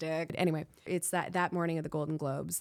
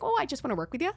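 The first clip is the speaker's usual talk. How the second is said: higher-pitched wide-eyed plea; retold sweet-talking deflection, pitched up; mock innocent pleading; 7 semitones higher, 4 dB louder, much faster than usual. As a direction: play the harmless, eager innocent. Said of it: "I suddenly was like".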